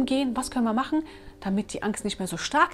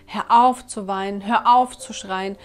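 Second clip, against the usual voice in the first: acted parent's order, slow and louder on "auf"; stern parental command; 5 dB louder, slower than usual. Parent telling a crying child to stop, stern. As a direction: lean firmly on each "hör auf".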